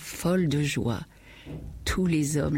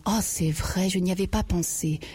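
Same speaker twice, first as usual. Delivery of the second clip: cri de joie; 3 semitones higher than usual. Acted. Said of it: "Elle poussa un cri de joie".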